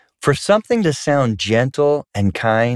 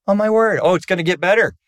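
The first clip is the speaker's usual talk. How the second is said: dismayed; 7 semitones higher, faster than usual. Retold or imitated. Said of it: "I was like".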